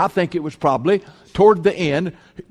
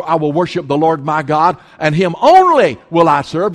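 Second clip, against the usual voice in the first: firm refusal; 5 dB louder than usual. Acted. Jesus answering the devil's temptation, firm and building louder. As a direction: build to a loud, emphatic declaration.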